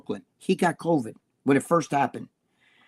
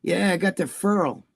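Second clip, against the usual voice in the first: higher mock Brooklyn "furl" for foil; hammed-up Brooklyn voice; Brooklyn accent imitation; 5 semitones higher than usual. Imitating Jimmy's Brooklyn way with foil, Brooklyn accent. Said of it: "Jimmy still talks like that".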